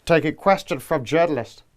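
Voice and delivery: flat monotone robot politician; robotic delivery. Acted. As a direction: read it like an emotionless machine. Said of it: "Starmer's robotic delivery, lack of character".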